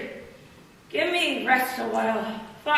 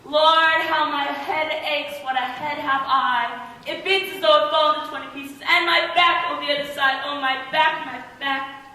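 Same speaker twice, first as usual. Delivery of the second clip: loud, high, theatrical moaning over aches; aching complaint; 3 semitones higher, 4 dB louder than usual. Acted. Nurse milks her aches for sympathy, loud complaining. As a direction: wail about every sore spot.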